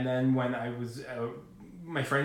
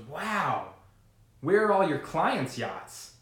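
higher, drawn-out joke setup question; naive wonder; 3 semitones higher, much slower than usual. Acted. Kid asks junior broker in a joke, naive wonder. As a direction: play the impressed, innocent kid.

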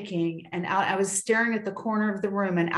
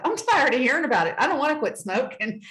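stamp your foot at it, half in jest; mock angry outburst; 4 semitones higher, faster than usual. Telling God off, in a hammed-up fed-up protest. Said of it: "Like, here's me to God".

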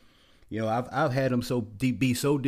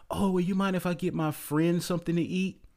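coy date asking; 6 semitones higher than usual. Retold or imitated. Date asks to feed her friend.

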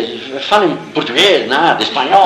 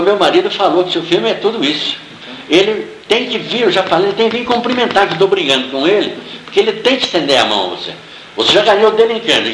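higher-pitched, pressing retold demand; insistent retelling; 5 semitones higher than usual. Wife says her husband must shake your hand, retold insistently. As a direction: insist on his behalf.

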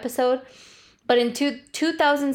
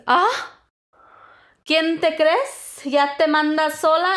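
imitated scolding mom; 7 semitones higher, 4 dB louder than usual. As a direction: scold like an affronted mother, hammed-up. Imitated mom scolding her daughter.

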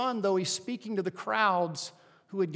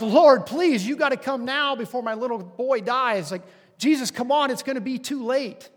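louder, higher, begging frantically; panicked father pleading loudly; desperate plea; 5 semitones higher, 7 dB louder than usual. Retold or imitated. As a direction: beg him to hurry before it's too late. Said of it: "And he's like".

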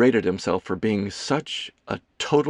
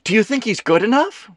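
high, loud, put-on curiosity; feigned interest; 12 semitones higher, 5 dB louder than usual. A narrator's reading. Kelsey asking Ethan about a stand-in, with feigned interest. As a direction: overdo the interested question. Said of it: "she asked with feigned interest".

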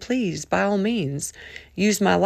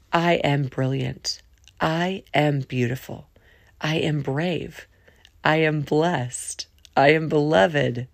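declaration recital; 3 semitones lower than usual. Acted. Reading daily declaration aloud.

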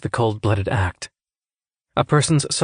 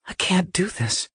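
high, small voice of dread; talking to herself; 9 semitones higher, 4 dB quieter than usual. A narrator's reading. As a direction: tell yourself in high-pitched despair. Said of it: "she told herself".

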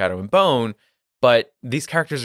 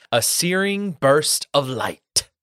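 slow, dramatic title announcement; dramatic title read; 3 semitones higher, much slower than usual. Acted. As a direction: read the title like a movie trailer.

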